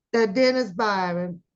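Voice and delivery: usual speaking voice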